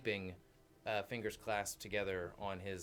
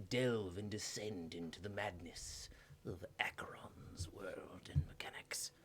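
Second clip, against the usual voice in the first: softer, eerie whispered aside; 3 semitones lower, 6 dB quieter than usual. Acted. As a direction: whisper it like a dark secret. Spooky aside about madness.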